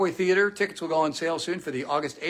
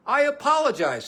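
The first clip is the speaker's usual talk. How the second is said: quoting commentator; 10 semitones higher, 5 dB louder than usual. Retold or imitated. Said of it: "said the commentator".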